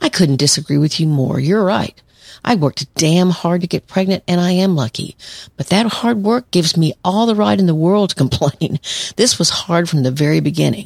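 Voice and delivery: ordinary talk, nothing marked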